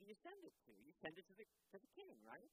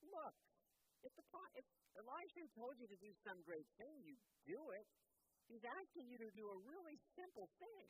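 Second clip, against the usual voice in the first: much higher, coaxing servant voice; pleading servants; 10 semitones higher, 3 dB louder than usual. Acted. Servants reasoning with the angry general, high coaxing voice. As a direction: talk the master down gently but firmly. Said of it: "his servants say to him".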